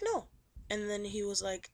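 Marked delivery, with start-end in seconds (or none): 0.0-0.3 high-pitched retold "no"; a quick high no, imitating her; mock refusal. Sonia answering his guessing question, mock high-pitched.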